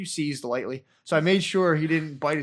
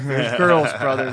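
plain reassurance; 7 dB louder, slower than usual. Retold or imitated. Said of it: "I'm like".

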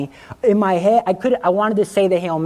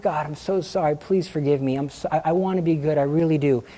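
softly retold contrite plea; quiet, understated apology in prayer; apologetic; 2 semitones lower, 4 dB quieter than usual. Young sinner apologizing to God, mildly contrite. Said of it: "when I was apologizing to God".

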